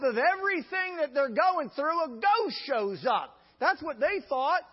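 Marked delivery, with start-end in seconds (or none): 2.0-3.4 spooky reveal. Real, not acted. Dramatic ghost reveal repeated.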